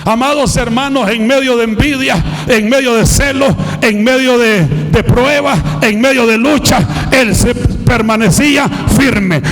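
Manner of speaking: driving, rhythmic sermon climbing in pitch; impassioned pulpit cadence, easing at the close; fiery preaching. Real, not acted. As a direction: pile up each phrase with growing fervor. Preaches at full force.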